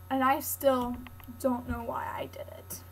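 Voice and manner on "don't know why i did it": whispered aside. Real, not acted. Wry aside after the challenge.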